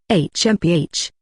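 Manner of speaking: a short huffy snort. Acted. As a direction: scoff with a huff. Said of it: "Momousagi snorted".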